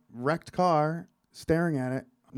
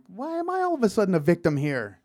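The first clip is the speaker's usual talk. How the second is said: retold protest; 5 semitones higher, 3 dB louder than usual.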